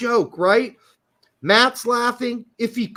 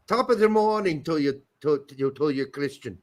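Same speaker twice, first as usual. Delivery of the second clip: a weak, slipping Irish brogue, barely there; bad Irish accent. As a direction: ham up a stage-Irish interviewer, but only lightly. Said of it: "that's why I got a bad Irish accent".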